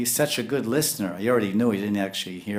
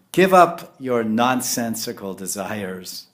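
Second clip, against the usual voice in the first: slow, weighty command, louder; stern rebuke; 6 dB louder, slower than usual. Retold or imitated. Mahaprabhu ordering Sanatan to drop his desires, slow stern command. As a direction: lay down the law slowly. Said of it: "He's calling him nonsense".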